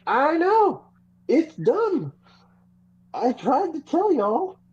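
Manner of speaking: high, drawn-out singsong; smug told-you-so. Retold or imitated. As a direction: sing it like a know-it-all. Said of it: "I was like".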